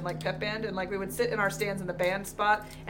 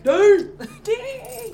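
loud, high shouted chant, laughing; cheerleader; 12 semitones higher, 11 dB louder than usual. Retold or imitated. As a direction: yell it like a rowdy pep band. Band chanting, mocking cheerleaders.

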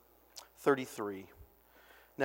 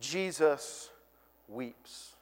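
softer, dropping away; hushed close; 3 semitones lower, 7 dB quieter, much slower than usual. Acted. Preacher driving home the point, fading hush. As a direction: let it fade into silence.

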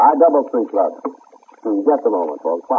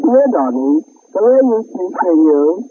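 put-on baby talk to a dog; 7 semitones higher, 4 dB louder than usual. Calling the dog sweetly.

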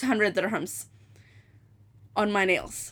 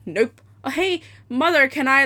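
wheedling; 4 semitones higher, 4 dB louder than usual. Retold or imitated. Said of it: "I said".

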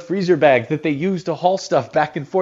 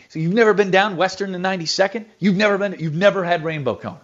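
imitating a stunned friend, pitched higher; mock-mortified disbelief; 6 semitones higher than usual. Broadcaster retells his colleague's disbelief, mock-mortified. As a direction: replay the shock that he never tried it, lightly hammed. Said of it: "He was mortified that I had never had Rainbow Cone".

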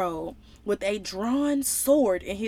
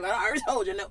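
Bernie Mac voice; 3 semitones lower, 3 dB quieter, much faster than usual. Retold or imitated. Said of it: "In my Bernie Mac voice".

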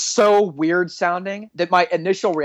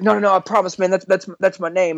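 nervous insistence; 3 semitones higher than usual. Retold or imitated. Driver pleading with the cop, stammering nervously. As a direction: trip over repeats in mock nerves. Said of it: "he's getting real nervous".

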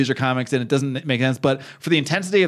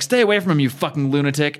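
acted fury. Wife acted out, defending her husband.

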